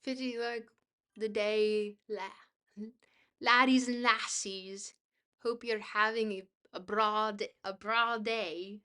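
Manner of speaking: halting, shaky attempt at a Scottish accent. Shown as a demonstration. Streamer tries what chat asked for, faltering Scottish accent. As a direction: have a go at a Scottish accent, badly. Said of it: "a Scottish accent".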